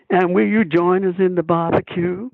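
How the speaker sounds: put-on mild Southern-accented line to Scarlett O'Hara. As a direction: lay on a gentle Southern accent, courtly and inviting. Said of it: "I had to put on a Southern accent".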